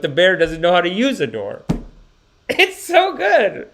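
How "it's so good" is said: high, slow, gushing it's so good; delighted squeal. Real, not acted. Streamer delighted by the clip, squealing high. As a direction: gush over the clip. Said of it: "delighted laugh".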